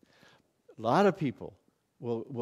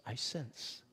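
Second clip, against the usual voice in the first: much softer, breathy mock reverence; hushed churchy imitation; 3 semitones lower, 11 dB quieter than usual. Preacher imitates prayer talk in a soft reverent hush. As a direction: murmur it like a pious pray-er. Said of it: "That's communication talk".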